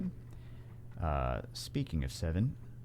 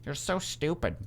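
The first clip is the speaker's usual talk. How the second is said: high-pitched mock outrage; mocking critics; 9 semitones higher, 3 dB louder than usual. Streamer imitating viewers who missed the sarcasm, mock scolding. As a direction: put on a high, incredulous heckler voice. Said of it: "People are gonna be like".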